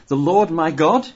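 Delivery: incredulous question. Shown as a demonstration. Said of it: "Kinda, like, interesting here".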